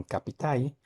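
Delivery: northern Cibao "capitai"; Dominican capitai. Shown as a demonstration. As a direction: say "capitai" with the final L turned into an I glide. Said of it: "En vez de capital, dicen".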